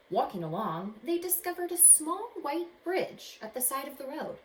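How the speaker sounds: expressive read-aloud storytelling; story narration. A narrator's reading. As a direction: read it like a picture book to kids. Reads picture book aloud.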